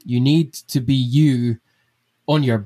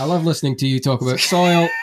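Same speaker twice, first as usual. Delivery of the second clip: gushing and laughing through it; laughing mock host; 3 semitones higher, faster than usual. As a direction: fake cheer breaking into laughs. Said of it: "I love the idea of you just being like".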